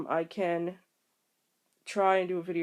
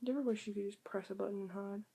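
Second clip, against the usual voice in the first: hushed; 8 dB quieter, faster than usual. Real, not acted. Hiding quietly from the brother.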